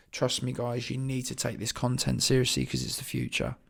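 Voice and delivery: rough, croaky morning voice; early-morning croak in the throat. Real, not acted. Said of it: "Sorry about the croaky voice".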